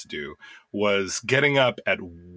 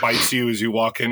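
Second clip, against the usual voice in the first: ordinary delivery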